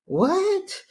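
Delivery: laughing disbelief. Real, not acted.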